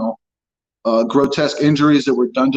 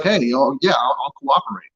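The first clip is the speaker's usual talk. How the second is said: mock eager cooperation. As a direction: play the naive suspect who wants to help. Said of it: "you're like".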